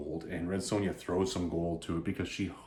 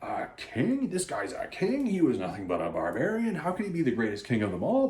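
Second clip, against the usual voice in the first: higher-pitched, indignant disbelief; mock outrage; 4 semitones higher than usual. Rotath going nuts over King Kull, mock outraged. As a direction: act affronted, without shouting. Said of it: "And Rotath goes nuts".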